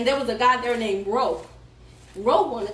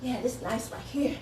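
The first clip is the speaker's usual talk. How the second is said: imitating a singer; 7 dB quieter than usual. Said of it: "he was like".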